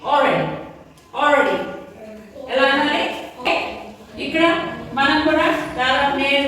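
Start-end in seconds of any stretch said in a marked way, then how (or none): 0.1-1.6 "Already" said without the l, like "o-ready"; silent l. Shown as a demonstration. Teacher showing students how to say the word, with a silent l. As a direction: drop the l in "Already" and say "awready". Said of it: "ఎలా పలుకుతారంటే already అంటారు, కానీ ఎల్ ఇక్కడ silent".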